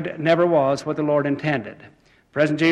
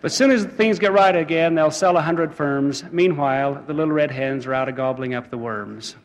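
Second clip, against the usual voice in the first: metrical verse, starting raised and settling down; rhymed moral recitation. Acted. Speaker to laughing congregation with the fable's moral, verse recitation. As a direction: launch the rhyming moral strongly, then ease off.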